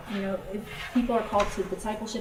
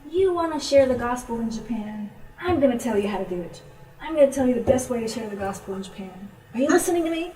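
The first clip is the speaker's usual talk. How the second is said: higher, pushy retold lecture; imitated bossy insistence; 3 semitones higher, 4 dB louder than usual. Tipsy friend telling the missionary how to share, insistent. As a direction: press the point, rising to a demand. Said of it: "had a couple glasses of wine".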